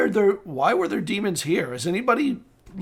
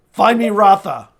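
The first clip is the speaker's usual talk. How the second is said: firm, louder summons; commanding order; 5 dB louder than usual. Acted. Lord ordering the steward to fetch Rotha, commanding. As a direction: send them off with a brisk command. Game master voices lord's order.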